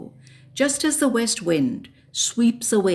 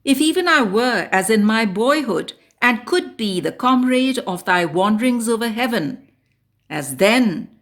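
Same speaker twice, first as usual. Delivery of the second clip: measured, impassioned ode reading; poem recitation. Acted. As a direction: recite it as a solemn invocation to the wind. Recites an ode after introduction.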